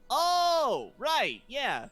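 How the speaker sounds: startled Roosh. Acted.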